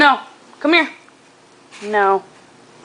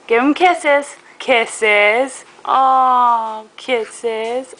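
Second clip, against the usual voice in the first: sing-song coaxing, louder; 4 dB louder, much slower than usual. Real, not acted. Baby talk to child.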